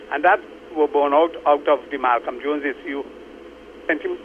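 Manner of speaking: choppy phone line dropping out; cutting in and out on a bad call; breaking up space radio. Real, not acted. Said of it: "You're breaking up a little bit".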